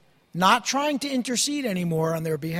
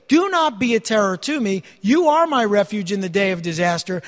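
scripture reading; 4 dB louder than usual. Acted. Preacher reading Jeremiah's prayer to the congregation, solemn and raised. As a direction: proclaim the verses with weight. Reads Jeremiah passage aloud.

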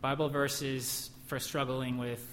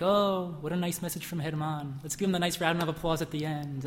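mock congregant; 4 semitones higher than usual. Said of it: "we could think".

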